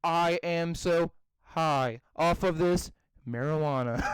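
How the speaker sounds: slow stiff robot delivery. Pretend. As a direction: recite it like a robot. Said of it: "like an ad-libbing robot".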